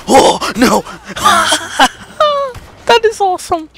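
high laughing delight; excited laughing. Real, not acted. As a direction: laugh it out in glee. Laughing at rocket.

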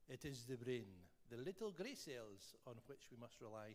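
lightly attempted Belgian detective accent; rubbish Belgian accent. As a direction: quote Poirot in a bad, French-sounding Belgian accent. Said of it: "That's a rubbish Belgian accent".

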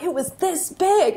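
lightly voiced six-year-old; imitating her daughter. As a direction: stretch it out like an amazed kid. Imitating daughter describing the sandwich.

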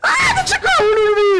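high, loud half-laughing yell; laughing shout of fright. Real, not acted. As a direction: yell and laugh at once from the scare. Mother shouting mid-game. (grido spaventato tra le risate)

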